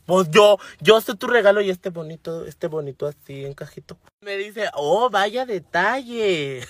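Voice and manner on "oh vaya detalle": very slow, drawn-out half-hearted praise; an imitated bored boyfriend; mock polite boredom. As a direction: stretch it like you couldn't care less. Boyfriend's flat reaction.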